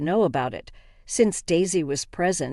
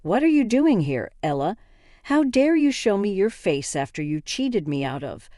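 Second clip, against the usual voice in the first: higher, indignant accusing demand; angry Ken; 4 semitones higher than usual. Acted. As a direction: confront her, voice rising in outrage. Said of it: "with an angry expression and said".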